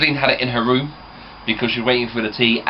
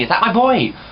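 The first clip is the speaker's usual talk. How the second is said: lightly voiced gran, raised at the start; gran's question; 3 semitones higher than usual. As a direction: imitate gran asking, pitched up then settling. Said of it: "she'll ask me".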